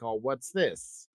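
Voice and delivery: low, slow puzzled mumble; quietly curious shopper. Retold or imitated. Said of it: "they're like".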